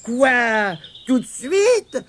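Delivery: high, incredulous question; surprised protest. A narrator's reading. Tirondin questioning Mémé's sudden order, surprised. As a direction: balk at the order, pitched high.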